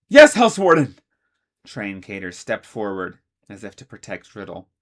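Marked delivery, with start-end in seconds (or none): 0.1-1.0 loud, high dutiful answer; loud obedient reply. Acted. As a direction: snap to attention. Members answer in unison.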